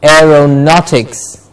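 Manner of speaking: "Aeronautics" slowly, air-ro-NAUT-iks; slow model of "Aeronautics", beat on "naut"; stress on NAUT. Shown as a demonstration. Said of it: "Not gets the stress".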